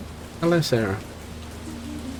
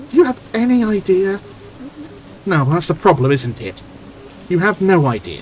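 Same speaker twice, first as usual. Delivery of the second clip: heated retort; 4 semitones higher than usual. Acted. Heated quarrel between characters.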